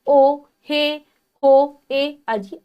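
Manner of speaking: calling out. Shown as a demonstration. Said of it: "संबंध बोधक".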